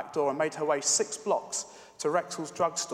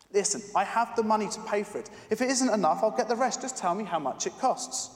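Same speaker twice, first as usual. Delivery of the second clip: put-on insistent little girl; 5 semitones higher, 3 dB louder than usual.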